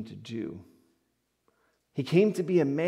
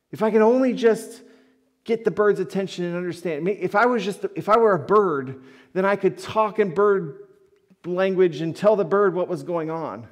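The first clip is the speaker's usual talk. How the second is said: much louder and higher, pleading; exasperated homeowner chasing a bird, loud and high; desperate wish; 6 semitones higher, 6 dB louder than usual. Retold or imitated. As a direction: cry out wishing you could speak bird. Frustrated man wishing to talk to bird.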